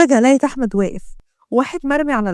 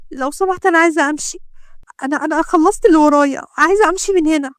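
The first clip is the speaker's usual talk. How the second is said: higher, pleading woman's voice; frightened doctor; 4 semitones higher than usual. Acted. Doctor begs the gangster to let her go, frightened. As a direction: ask to leave, scared.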